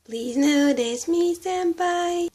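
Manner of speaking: put-on high, slow, pleading anime-girl voice; overacted anime dub. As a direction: beg senpai shyly. Acting as hajidere character.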